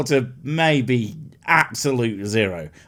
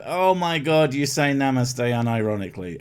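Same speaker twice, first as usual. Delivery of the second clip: mock disbelief. Real, not acted. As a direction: stretch it out in disbelief.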